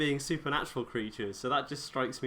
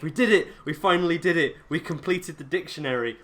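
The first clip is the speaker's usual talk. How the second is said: triumphant cheering; 5 semitones higher, 5 dB louder than usual. Retold or imitated. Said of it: "they're like".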